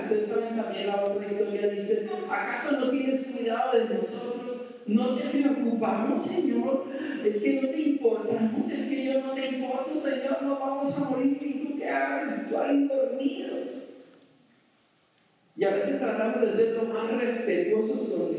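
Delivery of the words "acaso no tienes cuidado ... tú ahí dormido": higher, indignant accusing questions; reproachful complaint. Acted. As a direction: scold the sleeping master. Disciples reproach sleeping Jesus.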